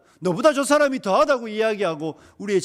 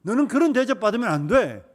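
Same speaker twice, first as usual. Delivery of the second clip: louder provoking devil; goading devil; 4 dB louder than usual. Retold or imitated. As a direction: push the grievance out firmly. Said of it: "이렇게 말하잖아요".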